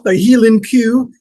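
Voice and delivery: hint of a Scots lilt on cow; lightly mock Scottish Highland cow; Scottish accent. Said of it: "the Scots".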